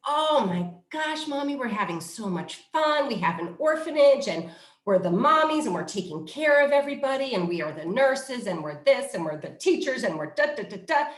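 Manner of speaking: 模仿兴奋的小女孩，音调更高，开头拖长; 轻快地演女儿们兴奋地讲游戏; imitating excited girls. Girls excitedly answer mom.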